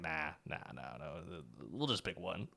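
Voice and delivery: softly brushing it off; waving it away under his breath; quiet dismissive. Retold or imitated. Retold own dismissal.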